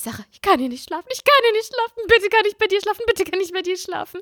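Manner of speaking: high, whiny begging; little sister begging to sleep in her bed, whiny; pleading little sister. Retold or imitated. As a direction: beg your big sister like a scared kid. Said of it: "dann meinte ich".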